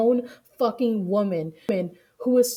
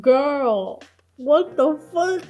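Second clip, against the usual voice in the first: high, loud, incredulous outburst; loud disbelief; 6 semitones higher, 7 dB louder, much slower than usual. Real, not acted. Streamer reacting to a politician's picture, loudly incredulous.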